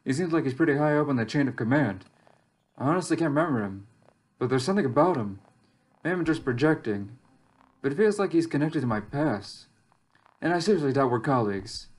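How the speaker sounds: measured first-person journal monologue; in-character story narration. Acted. Lone amnesiac survivor weighing clues about the relay station, measured narration. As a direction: think the mystery through aloud, evenly.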